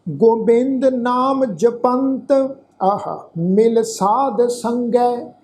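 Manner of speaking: slow, measured Gurbani recitation; scripture recitation. Shown as a demonstration. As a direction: draw out each word of the verse, evenly paced. Recites the scripture verse slowly. (ਹੌਲੀ, ਠਹਿਰ ਕੇ ਗੁਰਬਾਣੀ ਪਾਠ)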